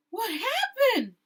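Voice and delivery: breathless, alarmed whisper. A narrator's reading. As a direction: gasp it out in shock. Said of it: "said Isabel when she arrived".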